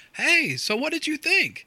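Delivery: mock very high, swooping yell. Recounting a friend six seats away at a show yelling a question, retelling a friend's yell. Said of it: "he's got to yell at me and he goes".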